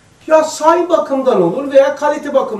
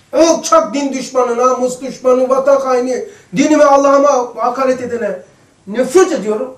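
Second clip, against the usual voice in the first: mock indignant outburst; 4 semitones higher, 5 dB louder than usual. Voicing hatred for faith's enemy.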